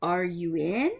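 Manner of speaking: loud sing-song call at the door; a wolf calling out to the little pig, loud and sing-song. Acted. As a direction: call out to the pig through the doorway. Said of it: "so I called".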